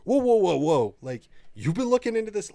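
high, startled string of whoas; mock astonishment, pitched well up; startled disbelief. Show characters stumbling on each other's investigations, startled. Acting out groups' startled discovery.

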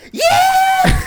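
high, cartoonish shrieked yeah; squeaky butt voice. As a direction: give his butt a shrill squeal. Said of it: "What do you think your ass would say to you?".

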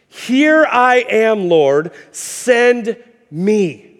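drawn out, slow and reverent; slow solemn surrender. Retold or imitated. Isaiah offering himself to the Lord, slow and reverent. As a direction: let each word land slowly, humbly.

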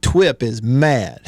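put-on slow baby talk; mock in baby talk. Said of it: "Beaver will do so in a baby voice".

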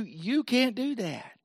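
soft, drawn-out taunt; slow, voiced mock whisper; imitating a whisper. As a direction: stretch it out softly, like a tempter. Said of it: "And so he whispers to you".

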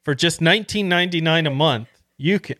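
upbeat TV pitchman voice; infomercial. Pretend. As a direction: sell it like a late-night ad. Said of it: "I felt like an infomercial".

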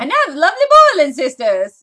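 put-on old radio announcer. Shown as a demonstration. Continues the radio voice bit.

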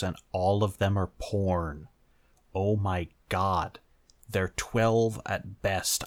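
appalled. Real, not acted. Appalled reaction to search results.

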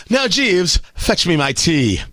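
lightly voiced posh lord ordering his butler; a hint of snooty upper-class, slowing at the end; mock toff calling for tea; pompous aristocrat. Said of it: "You sound like a putz when you say that".

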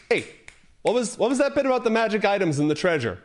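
a hint of a feisty halfling snapping; lightly voiced short, angry halfling; snappy halfling. A narrator's reading. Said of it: "snaps and says".

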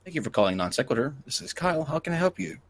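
lightly voiced helpdesk agent reading the greeting; tech support agent. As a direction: answer the phone like a scripted support rep. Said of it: "Non-sec tech support".

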